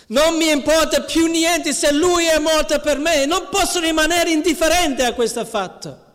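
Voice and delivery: building from calm to a high, resolute cry; Nicodemo deciso. Acted. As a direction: swell from resolve into passion. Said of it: "Sicuramente pensava". (da calmo a sempre più alto e appassionato)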